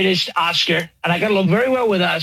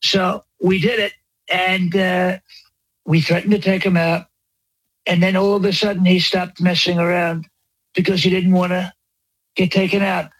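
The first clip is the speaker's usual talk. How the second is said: rambling mock-presidential boast; lightly voiced Trump parody; Trump impression. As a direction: riff like a bragging president.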